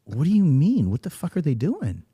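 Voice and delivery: high, loud, baffled retelling; acted bafflement. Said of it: "And I was like".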